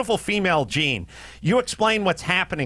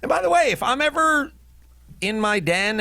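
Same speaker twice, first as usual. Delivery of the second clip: sudden outburst; 10 semitones higher than usual. Real, not acted.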